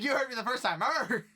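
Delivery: loud, high comic dog voice ending in a howl; back-talking husky. Retold or imitated. Husky defying the worker's order, comic back talk. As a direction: play a cheeky dog through laughter. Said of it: "He's like".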